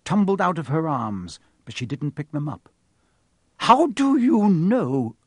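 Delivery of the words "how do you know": higher, louder, slow shocked splutter. Acted. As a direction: sputter it in shock. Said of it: "she spluttered".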